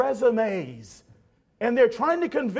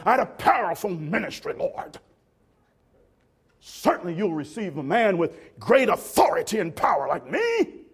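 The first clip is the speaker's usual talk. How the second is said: self-important plea. Retold or imitated. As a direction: argue your own greatness to the Lord. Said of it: "Others would say".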